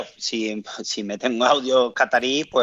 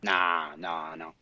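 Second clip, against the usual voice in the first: whispered no; 5 semitones lower, 9 dB quieter, much slower than usual. Real, not acted. Denies team played well.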